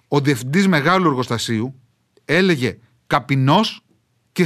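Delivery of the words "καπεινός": put-on old Achaean «καπεινός» with a heavy accent; dialect pronunciation. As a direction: say «καπεινός» the old village way, as written. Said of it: "με βαριά προφορά". («καπεινός» με βαριά ορεινή προφορά)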